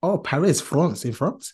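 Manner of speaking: put-on French pronunciation of Paris and France; French accent. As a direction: try on a playful French accent. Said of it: "tried to do a French accent".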